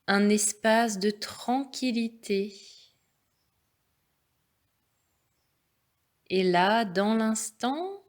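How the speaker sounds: calm, measured relaxation voice; guided meditation. Real, not acted. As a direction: guide them unhurriedly into stillness. Leads a yoga nidra.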